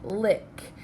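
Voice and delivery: "lick" said as a separate chunk; isolated syllable. Shown as a demonstration. Teacher sounds out a word's second syllable, "lick" isolated. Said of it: "second syllable is".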